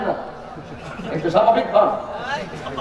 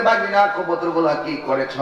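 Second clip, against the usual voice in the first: uncle asking; 4 semitones lower than usual. Retold or imitated. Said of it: "তিনি বলছিলেন".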